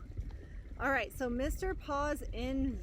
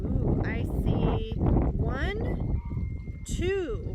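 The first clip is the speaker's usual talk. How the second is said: playful discovery; 7 dB louder, much slower than usual. Real, not acted. Spotting prefixes playfully.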